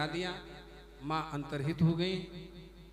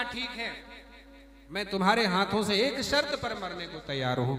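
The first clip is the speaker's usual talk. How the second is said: proud demon; 3 semitones higher than usual. Acted. The demon agrees to die on one condition, booming. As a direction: bellow the demon's bargain.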